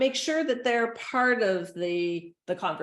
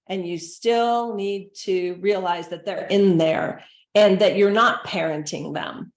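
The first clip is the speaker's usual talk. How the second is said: louder, firm insistence; emphatic; 6 dB louder than usual. Real, not acted. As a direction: drive the point home hard. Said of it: "emphatic point, much louder".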